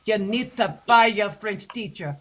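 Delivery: lightly voiced teasing stagehand; deadpan ribbing from the sound man; a hint of a sound man's jab. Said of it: "one of the sound men said".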